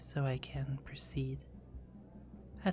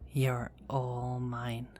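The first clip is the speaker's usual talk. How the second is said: possessive; much slower than usual. Acted. Vampire claims her victim.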